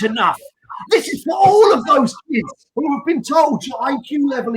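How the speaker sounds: impassioned shouted promo, voice cracking; angry promo shout. Retold or imitated. Wrestler's furious promo to the crowd, shouted. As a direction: mimic an angry wrestler yelling his promo. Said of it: "Why would you get so angry".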